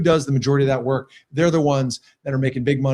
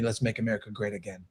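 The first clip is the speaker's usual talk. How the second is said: Trump impression; 6 semitones lower, 10 dB quieter, faster than usual. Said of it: "I'm getting better on my Trump impersonation".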